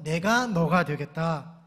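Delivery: loud, very slow, word by word; preacher's slow call-and-response line; slow emphatic recitation. Shown as a demonstration. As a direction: spell it out for the congregation to repeat. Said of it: "다시 한번".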